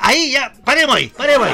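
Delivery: laughing. Real, not acted. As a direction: laugh it off while calling a halt. Se ríe tras el insulto. (riendo, pidiendo parar)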